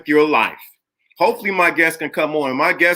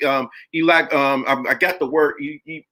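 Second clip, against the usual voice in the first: ordinary delivery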